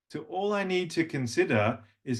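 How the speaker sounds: normal talking voice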